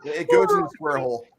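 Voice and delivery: high mock meme voice. Meme quote called out.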